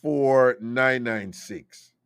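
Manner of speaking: very slow digits; spaced-out number read; slow area code. Shown as a demonstration. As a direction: draw each digit out. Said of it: "That is from Jamaica".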